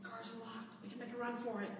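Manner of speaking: hushed, conspiratorial murmur; whispered escape plan. Retold or imitated. Brother behind him in the aisle, hushed. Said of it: "He's like".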